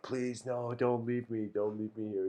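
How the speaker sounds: a touch of a pleading little voice; lightly voiced begging scorpion. Scorpion begging frog not to leave, a touch pleading.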